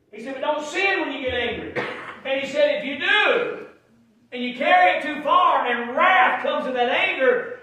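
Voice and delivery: high, loud preacher voice; full-force preaching. Real, not acted. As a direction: drive it home to the congregation, pitch climbing as you go.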